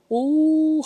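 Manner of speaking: high excited ooh; surprised ooh. Real, not acted. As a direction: react with delight, pitch jumping. Excited reaction to pour.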